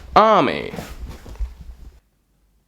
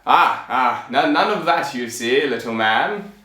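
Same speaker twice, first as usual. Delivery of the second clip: pompous king. Acted. King setting the tailor a task to kill giants, pompous. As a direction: proclaim grandly with weighty pauses. Plays the king offering reward.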